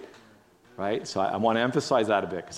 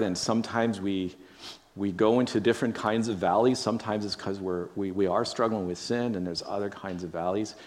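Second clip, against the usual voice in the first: prayer. Real, not acted. Leads a prayer.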